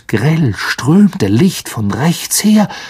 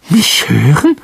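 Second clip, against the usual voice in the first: strained, high-pitched question; unnaturally high voice; 2 semitones higher, 4 dB louder than usual. A narrator's reading. Ron answering Harry's warning, unnaturally high voice. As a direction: squeak it in alarm. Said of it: "mit unnatürlich hoher Stimme".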